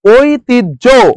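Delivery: "ঐতিহ্য" slowly split as oi-tij-jho; syllable-by-syllable pronunciation. Shown as a demonstration. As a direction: sound out "ঐতিহ্য" in three stretched syllables. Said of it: "শব্দের প্রমিত উচ্চারণ কোনটি?". ("ঐতিহ্য" ধীরে ওই-তিজ-ঝো ভেঙে উচ্চারণ)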